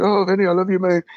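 high, adoring fan plea; mock tearful fan. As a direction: gush like an overcome kid, imitated. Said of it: "the kid's in tears".

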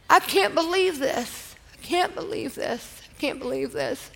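hushed, halting echo of a crying friend; imitated tearful disbelief. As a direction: say it softly, as if retelling through tears. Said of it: "she's crying".

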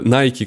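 Nike по-американски, «Найк» без «и» на конце; произносит Nike как американец, «Найк»; английский акцент. Real, not acted. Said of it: "ты что, произносишь, э, Nike как, э, как американец?". (американское «Найк»)

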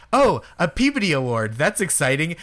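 a hint of Boston accent in "Peabody", lightly voiced. Massachusetts man telling friends, light Boston accent on "Peabody". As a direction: say "Peabody" the Eastern Massachusetts way, lightly mocking himself. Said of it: "'cause I've been like".

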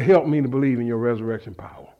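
low, soft, quick prayer; subdued plea. Retold or imitated. Preacher recalling his plea to God, subdued plea. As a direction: pray it humbly under your voice. Retelling own prayer, first take.

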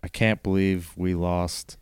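slow, halting haiku line. Pretend. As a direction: feel each syllable as you build it. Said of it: "Five more".

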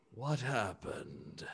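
low and soft, slowly counting; a confused giant noticing something is off; puzzled gentle elephant. Acted. Bertrand realizing two of the group are missing, low, soft and puzzled.

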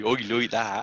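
broad West Country oi, like that; playful rural West Country twang; West Country accent. Pretend. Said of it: "We went back to my roots".

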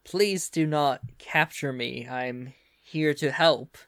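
slow, measured hint of a German accent. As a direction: speak slowly with a light German accent. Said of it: "this voice in this thick German accent".

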